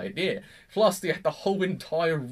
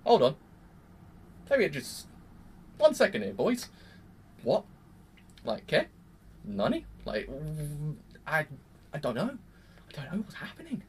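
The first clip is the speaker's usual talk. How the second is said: baffled. Retold or imitated. Fan confused after the twist, baffled stammer. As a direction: lose the thread completely. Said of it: "You're like".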